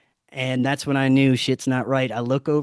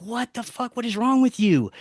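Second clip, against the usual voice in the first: high-pitched retold outburst, not shouted; strained, incredulous mock freak-out; panicked disbelief; 9 semitones higher than usual. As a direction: act out bewildered alarm, pitched way up. Panicked retort to the friend in story.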